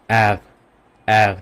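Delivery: "অ্যার" with the R from deep in the throat; throaty German R. Shown as a demonstration. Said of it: "এটা ভিতর থেকে আসবে, throat থেকে". ("অ্যার" গলার ভিতর থেকে জার্মান উচ্চারণে)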